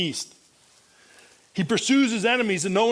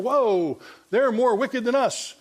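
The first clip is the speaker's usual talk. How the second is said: higher-pitched mock dismay, acting out Habakkuk; taken aback; 5 semitones higher, slower than usual. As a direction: protest in playful disbelief, pitched up. Voicing Habakkuk's shocked reply to God.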